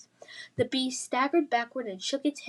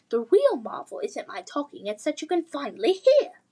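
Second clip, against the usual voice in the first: put-on posh English accent; 3 semitones higher, 4 dB louder than usual. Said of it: "posh English accent".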